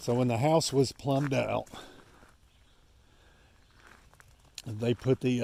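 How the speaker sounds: out of breath and winded. Explaining the plumbing after walking up a steep hill, out of breath. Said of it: "sorry, I'm out of breath".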